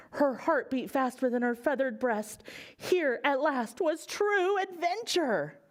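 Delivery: lively read-aloud storytelling; children's story reading; story narration. A narrator's reading.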